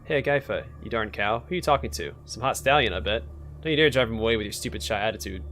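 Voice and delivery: lightly voiced crude belly voice; screechy voice. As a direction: taunt like a rude screechy imp. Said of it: "a terrible screechy voice starts coming".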